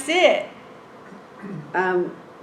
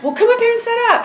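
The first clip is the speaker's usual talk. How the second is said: much higher, louder, fast order; impatient judge's raised-voice command; imitated yelling judge; 14 semitones higher, 5 dB louder, faster than usual. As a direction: act out a judge nearly yelling. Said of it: "he's, like, practically yelling at me".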